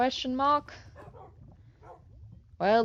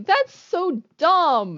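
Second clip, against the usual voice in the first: exasperated; 10 semitones higher, 7 dB louder, much slower than usual. Real, not acted. Frustrated at herself.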